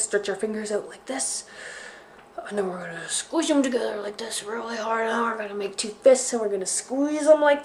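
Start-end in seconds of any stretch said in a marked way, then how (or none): 2.5-5.4 whispered instruction. Real, not acted. Whispered aside in finger rhyme.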